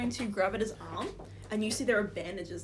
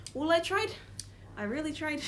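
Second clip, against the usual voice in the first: gruff guard; 5 semitones higher than usual. Acted. Guard tells the crying kid to man up, gruff. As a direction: bark at the kid to toughen up. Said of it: "he turns back and says".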